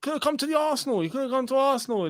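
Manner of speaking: high-pitched teasing imitation of a fan; mocking. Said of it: "like, mocky".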